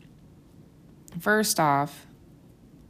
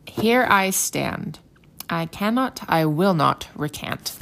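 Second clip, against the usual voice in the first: slow, louder, solemn stand; defiant declaration; 5 dB louder, slower than usual. Retold or imitated. Martin Luther refusing the council, slow and firm. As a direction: plant your feet and declare it slowly. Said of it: "He says".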